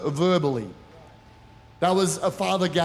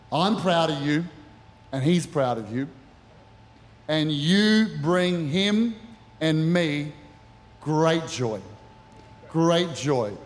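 spoken blessing; 3 semitones lower, slower than usual. Acted. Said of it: "I wanna say something over you today".

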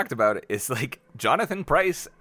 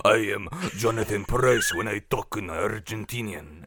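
mock Argentinian accent; 3 semitones lower than usual. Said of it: "A D R, it was like".

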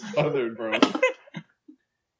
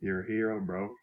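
McConaughey as Luigi. Acted. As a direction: mumble it like a chill Texan. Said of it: "Matthew McConaughey as Luigi".

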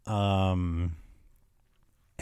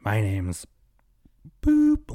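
mock drunk woman; 3 dB louder, slower than usual. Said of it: "She's like".

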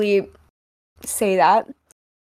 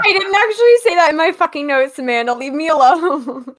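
mock annoyed; 5 semitones higher, 4 dB louder, faster than usual. Real, not acted. Mock annoyed at teasing friend.

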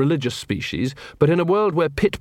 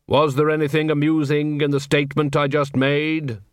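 grim reaper voice. Acted. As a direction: speak as a calm grim reaper. Death asks about his pun.

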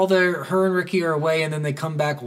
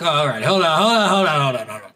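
mock flustered; faster than usual. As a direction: halt her in mock panic. Flustered reaction retold.

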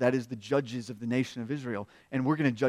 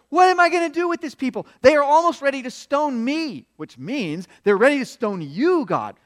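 loud, high-pitched plea to God; acted-out exasperated appeal; desperate cry; 8 semitones higher, 6 dB louder than usual. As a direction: cry out at your wits' end. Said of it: "Moses turns around and cries to the Lord".

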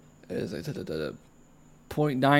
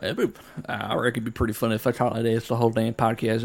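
put-on red-blooded Texan accent; 3 semitones lower, 4 dB quieter than usual. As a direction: lay on a folksy Texan accent. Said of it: "red-blooded Texan".

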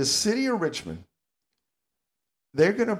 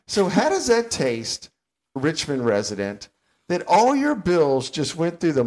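sarcastic taunt; 3 semitones higher, 3 dB louder than usual. Real, not acted. Host sarcastically taunts Richmond residents over their bills. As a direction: needle the listener with mock sympathy.

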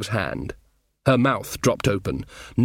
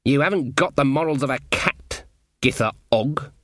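amiable. Acted. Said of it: "said in an amiable voice".

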